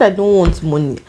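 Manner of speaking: offhand retold refusal; casual. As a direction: say it casually, like it is no big deal. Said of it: "I was just saying it casually".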